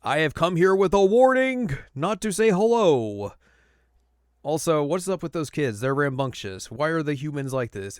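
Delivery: high, loud, pompous exasperation; Jocko exasperated. Retold or imitated. Jocko complaining about the kids, pompous. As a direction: lament with grand indignation. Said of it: "Jocko's just like".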